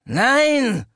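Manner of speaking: high loud cry of Nein; shouted no. A narrator's reading. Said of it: "rief ich".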